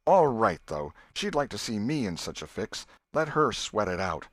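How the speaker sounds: put-on boy voice. Tom's voice in story.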